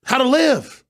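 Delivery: high, strained indignation building to slow emphasis; indignant rant. Real, not acted. Host railing at those telling producers how to live, indignant climax.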